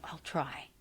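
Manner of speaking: a frail patient's reluctant whisper; small whisper. Retold or imitated. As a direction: barely breathe it out, defeated. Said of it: "this little whisper of".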